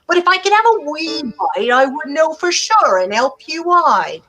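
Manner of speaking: lightly voiced crafty dog; crafty dog tricking the sausage; greedy sly dog. Dog tastes and bargains.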